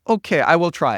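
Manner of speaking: a hint of nervous, hesitant agreement; Anatoly. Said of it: "seem very nervous and scared and timid".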